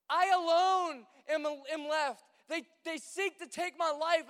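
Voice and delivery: dramatic Elijah. Retold or imitated. Elijah telling God he is alone, melodramatic. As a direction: wail it like a self-pitying prophet. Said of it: "he's so emotional right now".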